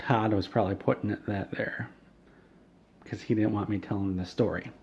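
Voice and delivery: hushed conspiratorial whisper. Real, not acted. Narrator suspects Todd is listening, whispering. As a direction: whisper it so Todd won't hear. Aside suspecting Todd's sabotage.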